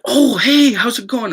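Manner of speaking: cheery greeting. Retold or imitated. Retelling how his friend greeted him, in a high, loud mock hello.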